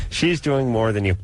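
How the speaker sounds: loud, falling line delivery; demonstrated delivery. Shown as a demonstration. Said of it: "here's how you deliver it".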